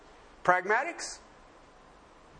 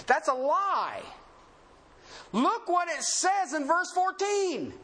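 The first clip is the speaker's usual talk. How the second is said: emphatic pulpit delivery, raised at the start and end; forceful preaching; 5 semitones higher than usual. Real, not acted. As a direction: preach it with rising insistence.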